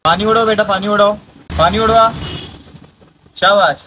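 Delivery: high, encouraging parent voice. Real, not acted. Parent cheering child splashing water.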